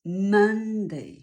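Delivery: Monday said slowly as MAN-day, first syllable stressed; English Monday. Shown as a demonstration. Teacher models the word Monday for Polish learners, slow and clear. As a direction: say Monday with a strong MAN and short falling day. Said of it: "Wymowa Monday".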